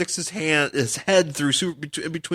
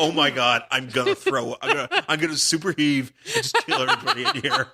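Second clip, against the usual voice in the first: laughing mock nausea; 3 semitones lower than usual. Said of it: "He's probably like".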